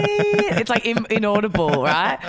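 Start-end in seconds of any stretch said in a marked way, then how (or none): none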